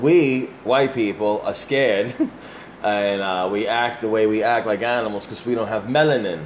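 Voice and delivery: slow, drawn-out mocking quote; mock retelling. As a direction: quote him slowly, as if it's idiotic. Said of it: "This is how he's saying it".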